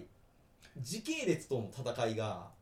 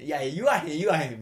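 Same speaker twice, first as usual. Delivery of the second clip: louder playful Kansai denial; mock cute Kansai girl; 2 semitones higher, 9 dB louder than usual. Scene: mocking the anime girl's Kansai, playful denial. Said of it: "関西弁のあの女の子".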